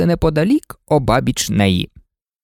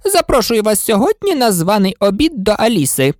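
grand queen; 8 semitones higher than usual. Acted. Red Queen inviting White Queen.

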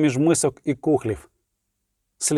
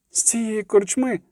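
put-on slow, high, lightly frightened girl; trembling voice; 7 semitones higher, slower than usual. A narrator's reading. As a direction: repeat it with a touch of trembling fear. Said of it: "повторила вона тремтливим голосом слова Кейлі". (повільно, високо, з легким тремтінням у голосі)

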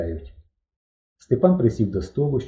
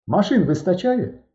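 mimicking Sur, higher and slow; in Sur's voice; 8 semitones higher than usual. A narrator's reading. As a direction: copy Sur's voice, slowly. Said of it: "запитав голосом Сура". (голосом Сура, вище й повільно)

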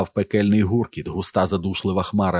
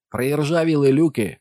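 high, raised voice over the noise; urgent high yell; shouted; 8 semitones higher, 4 dB louder than usual. A narrator's reading. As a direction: call it out loudly, pitched up. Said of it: "прокричав він".

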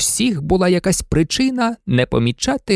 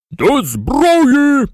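high, ringing call to arms; shouted command; 11 semitones higher, 4 dB louder than usual. A narrator's reading. General calling his artillerymen to arms, high shout. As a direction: shout the order at full pitch. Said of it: "гукнув генерал своїм артилеристам".

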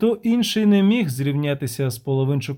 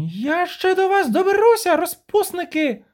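furious shriek. Acted. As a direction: scream threats after the runaways. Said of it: "крикнула Веспуля".

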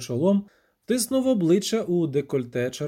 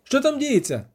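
anxious shout; 9 semitones higher, 3 dB louder than usual. Acted. Dandelion shouts over the storm.

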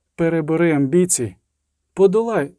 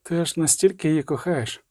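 "Ти аж настільки її кохаєш" stated, falling at the end; statement, not question; 4 dB quieter than usual. A narrator's reading. Sorceress to the witcher, "Ти аж настільки її кохаєш" as a falling statement. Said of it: "сказала, не запитала вона".

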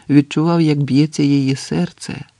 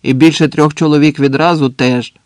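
louder, firm announcement; calling out; 5 dB louder than usual. Acted. Sentry laying down terms, calling out. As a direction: add the condition in a projected voice.

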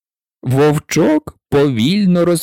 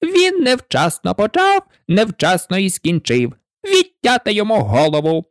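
shouting; 7 semitones higher than usual. A narrator's reading. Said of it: "королева зарепетувала".

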